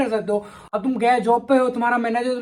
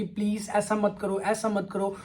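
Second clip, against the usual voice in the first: soft, slow mock plea; imitated pleading; 6 dB quieter, slower than usual. Boyfriend begging his girlfriend to stop, mock soft pleading. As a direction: plead gently, as if imitating a helpless lover. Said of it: "अपनी बंदी को समझाना चाहते हो कि".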